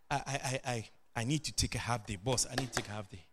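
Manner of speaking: low, soft, halting plea; meek request. Retold or imitated. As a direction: reenact asking the boss timidly for time off. Meekly asks boss for leave.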